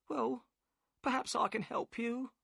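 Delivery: the boatman's wife, worried and curt; upset wife. A narrator's reading. Narrator voices Mrs Smith.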